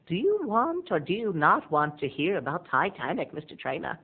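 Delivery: a hint of an imperious old lady; lightly voiced old Rose. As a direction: play the grand old dame, lightly. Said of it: "And she's like".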